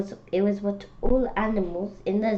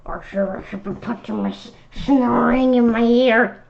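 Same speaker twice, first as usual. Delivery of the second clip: giggling through the line; can't keep a straight face at the snoring; laughing; 3 semitones higher, 6 dB louder than usual. Real, not acted. Giggles reading the hippo line.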